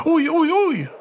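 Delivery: a high, yelping "Ouille, ouille, ouille!"; the hedgehog yelps as he is knocked over; storybook cry of pain. A narrator's reading. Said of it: "crie le monstre".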